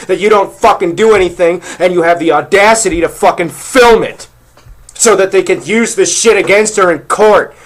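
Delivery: real angry rant; pissed off. Real, not acted. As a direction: rail at them, worked up and indignant. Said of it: "get this fucking pissed off".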